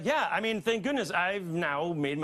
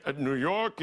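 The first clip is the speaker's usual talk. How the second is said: put-on Trump accent; 4 semitones lower than usual. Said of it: "he was doing the Trump accent".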